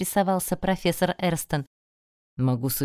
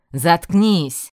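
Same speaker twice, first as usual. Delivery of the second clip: louder barked order; 8 dB louder than usual. A narrator's reading. Magister barks at the student to shut up. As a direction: bark it to shut him up. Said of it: "рявкнул магистр".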